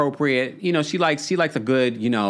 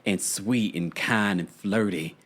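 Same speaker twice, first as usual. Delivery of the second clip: mock dainty voice; 6 semitones lower, 4 dB quieter than usual. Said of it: "put on that Southern drawl".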